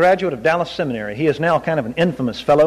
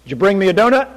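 gentle giant voice; faster than usual. Retold or imitated. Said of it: "that big, deep voice".

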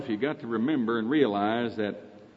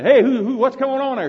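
put-on higher, louder startled call of an old blind man; 10 semitones higher, 6 dB louder than usual. Blind man by the road calls to the passing crowd, loud and puzzled.

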